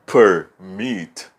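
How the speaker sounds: permit split in two, MIT stressed; stress on last syllable. Shown as a demonstration. Teacher showing students the strong last syllable, permit with MIT stressed. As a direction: say permit as per... MIT, leaning on MIT. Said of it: "elas são as últimas sílabas fortes".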